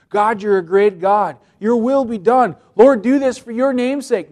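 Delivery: humble praise. Acted. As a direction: plead for God's glory. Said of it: "Notice the difference".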